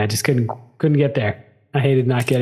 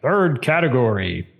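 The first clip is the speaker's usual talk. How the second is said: narrator voice; 3 semitones lower than usual. Retold or imitated. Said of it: "We need a narrator to be like".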